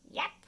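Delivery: yap like a dog. Pretend. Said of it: "Others sound like dogs".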